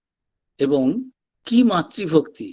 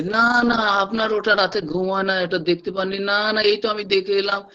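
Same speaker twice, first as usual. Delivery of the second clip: Narendranath objecting. Retold or imitated. Young disciple contradicting his master, mock-insistent objection. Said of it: "এই young Narendranath বাধা".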